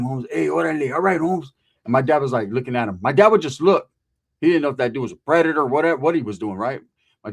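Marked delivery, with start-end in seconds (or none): 0.0-1.5 lightly voiced barrio homie; a touch of Chicano street swagger; imitating a homie signing off; OG norteño. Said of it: "he was an O G northerner".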